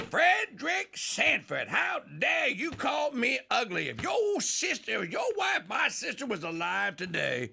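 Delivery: high, shrieking mock shout at Fred; hammed-up indignant aunt shouting; a scandalised aunt yelling how dare you; mock outraged Aunt Esther. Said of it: "And then Esther goes".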